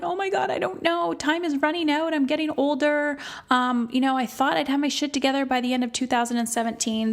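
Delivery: high, rushed mock panic; acted-out fretting, high and breathlessly wordy; imitating freaking out. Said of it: "They're freaking out going".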